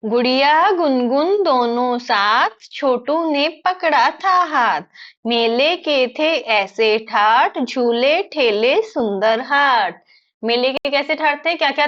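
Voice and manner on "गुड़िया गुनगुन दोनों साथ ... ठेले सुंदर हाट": put-on slow sing-song children's verse; poem recitation. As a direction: recite slowly, stretching each word with a lilting tune.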